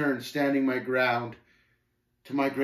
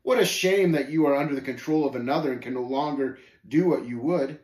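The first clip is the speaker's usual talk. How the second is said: quick, louder mocker; lightly voiced scornful Shame, mock pity; 3 semitones higher, 6 dB louder than usual. Shame pitying the pilgrim under another's control, mocking. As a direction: feign pity briskly.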